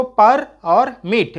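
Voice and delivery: परमिट broken into पर and मिट; पर, then मिट, each syllable on its own; split into syllables. Shown as a demonstration. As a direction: say पर and मिट as two separate pieces. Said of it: "विभाजित करेंगे".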